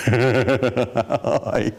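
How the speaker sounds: drawn out, teasing and sarcastic; a girl mocking a boy's crush with a slow sneer; slow mocking I love you. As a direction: stretch it out to mock him. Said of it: "And she went".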